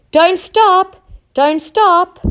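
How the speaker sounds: high loud cheer. Acted. Oscar urging the octopus on, loud high cheer. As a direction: egg him on.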